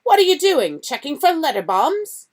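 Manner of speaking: high sneering jeer; mock him with a nasty laugh in the voice; scornful uncle taunting. A narrator's reading. Vernon mocking Harry.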